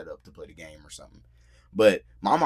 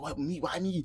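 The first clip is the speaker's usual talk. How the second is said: mock protest; 9 semitones higher, 5 dB quieter than usual. Friend protests being recruited to pretend.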